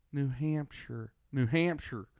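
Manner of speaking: "New Hampshire" measured and fully pronounced; careful announcer-like "New Hampshire", both parts distinct; normal pronunciation. Retold or imitated. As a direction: say "New Hampshire" evenly, HAMP-sher intact. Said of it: "somebody normal pronounce all the words".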